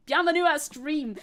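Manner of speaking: put-on loud "Bienvenue à stream" with the French accent dropped; mock "Bienvenue à stream" in loud anglophone French; joking accent-free French. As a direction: belt out "Bienvenue à stream" in flat English sounds, no French accent. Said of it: "No accent anymore".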